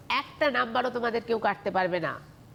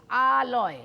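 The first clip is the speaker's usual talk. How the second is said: আলয় with the opening আ lengthened; drawn-out first syllable; much slower than usual. Shown as a demonstration. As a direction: linger on আ, then close লয়. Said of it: "আমার সঙ্গে সঙ্গে উচ্চারণ করলে".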